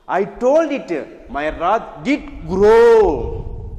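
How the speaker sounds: slow, measured reading of the poem; poem recitation. Shown as a demonstration. Teacher reading the poem aloud to students, slow and measured. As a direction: recite each line slowly for the class.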